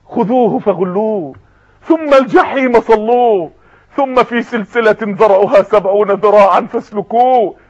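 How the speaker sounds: langsam, feierlich rezitiert; Koranrezitation. Acted. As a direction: trag den Vers getragen vor.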